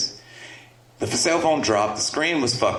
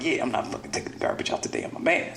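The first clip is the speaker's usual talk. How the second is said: whispered, fast, smug aside; a fast, whispered brag; cocky mutter; 7 dB quieter, faster than usual. Retold or imitated. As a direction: mutter it under your breath, smug. Proud teen muttering.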